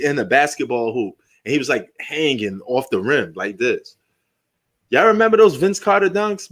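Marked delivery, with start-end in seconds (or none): 4.9-6.5 rally the audience with a nostalgic cheer; excited. Real, not acted. Hyping his viewers about Vince Carter.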